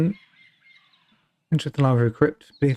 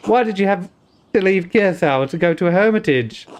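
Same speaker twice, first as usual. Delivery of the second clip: put-on Welsh accent; 2 semitones higher than usual. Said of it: "I'll do Welsh".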